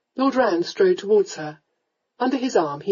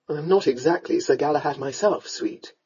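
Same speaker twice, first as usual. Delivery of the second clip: lightly voiced lower man; wry, affectionate lord; 4 semitones lower than usual. Lord reassures his sweetheart, wryly. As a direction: say it low, gently dismissive.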